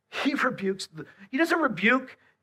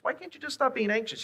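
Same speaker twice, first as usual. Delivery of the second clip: mock exasperated; 9 semitones higher than usual. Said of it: "Tell somebody who's anxious".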